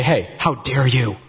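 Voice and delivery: slow, mildly accusing; a hint of finger-wagging scold; mock accusation. Shown as a demonstration. Pastor showing the wrong way to confront, mock accusing. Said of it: "I don't come to Courtney and say".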